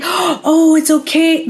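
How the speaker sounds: high, sweet mock reassurance; imitating sympathetic clients.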